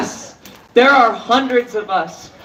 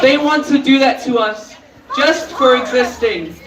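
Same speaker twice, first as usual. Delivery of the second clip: breathless, voice catching; losing breath mid-sentence; catching breath midword. Real, not acted. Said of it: "Sorry, I lost my breath".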